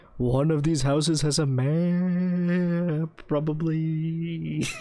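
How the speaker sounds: eerie put-on ghostly voice, "map" drawn out. Playing a game with friends, voicing a character in a spooky voice. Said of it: "now he's in a spooky voice".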